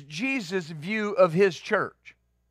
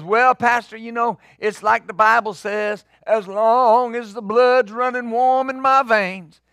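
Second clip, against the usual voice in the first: mimicking a testifying man; 4 semitones higher than usual. Preacher imitating a man testifying in church, a hint of earnestness. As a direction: play the sincere man quoting a slogan. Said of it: "he stood up and he goes".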